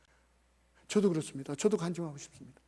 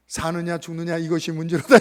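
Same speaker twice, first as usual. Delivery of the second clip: dramatic Hamlet quote; 8 dB louder than usual. Retold or imitated. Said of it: "햄릿 보면은".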